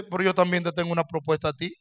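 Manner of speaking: voice of God. Pretend. God calmly answers the believer with his own plan. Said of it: "Dios dice".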